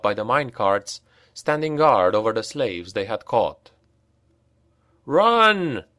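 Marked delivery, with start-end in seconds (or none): 5.1-5.8 high, loud shout; calling out. A narrator's reading. Reiner warns his companions, loud shout. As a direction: yell the warning down the corridor. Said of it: "called Reiner".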